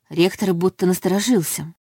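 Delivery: plain reading voice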